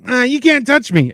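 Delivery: put-on high sing-song kid taunt; taunting little kid. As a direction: tease like a bratty kid. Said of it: "little kids are like".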